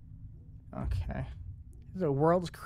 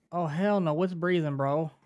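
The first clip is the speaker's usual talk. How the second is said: scared horror game streamer; 3 semitones higher, 4 dB louder than usual. Real, not acted. Hears breathing in horror game.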